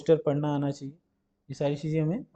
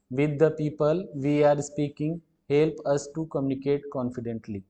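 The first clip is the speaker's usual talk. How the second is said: reading the sentence word by word, very slowly; slow reading aloud; much slower than usual. Acted. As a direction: spell out each word slowly for the class. Reads question aloud slowly. (धीरे-धीरे वाक्य पढ़ना)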